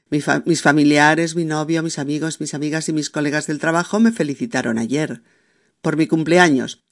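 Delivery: a break after ayer before por mi cumpleaños; wrong pause after ayer. Shown as a demonstration. Teacher demonstrating the wrong comma after ayer. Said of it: "No puedo decir".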